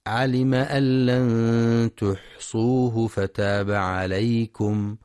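slow chanted tilawa; Quranic recitation. Acted. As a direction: recite with tajweed. (تلاوة مجودة)

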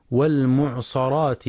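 والمعصرات with "a" after the sad; fatha error on sad. Shown as a demonstration. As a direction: say والمعصرات as "mu'sarat" instead of "mu'sirat". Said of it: "ويقرأها بالفتح".

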